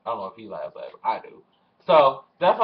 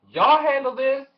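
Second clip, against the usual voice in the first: high exasperated; 11 semitones higher, 5 dB louder than usual. Retold or imitated. Handing off to neighbors.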